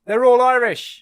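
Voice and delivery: loud, high exclamation; excited. Real, not acted. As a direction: blurt out the fun fact. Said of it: "excited reveal".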